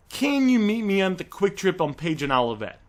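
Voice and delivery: a gentle, easygoing question that leaves room for a no; soft phrase. Shown as a demonstration. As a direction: ask lightly, with no pressure at all. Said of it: "it's called a soft phrase".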